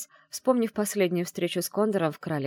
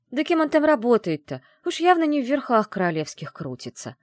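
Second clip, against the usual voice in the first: loud, high scoffing retort; a scornful, raised snort of disbelief; 8 semitones higher, 8 dB louder than usual. Acted. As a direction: snort it out dismissively, louder. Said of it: "фыркнула я".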